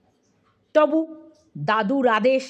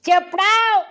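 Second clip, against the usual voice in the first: high, sharp rebuke; doctor's stern telling-off; scolding; 7 semitones higher than usual. A narrator's reading. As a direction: cut the patient off with a raised-pitch order. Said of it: "doctor ধমক দিয়ে বললেন".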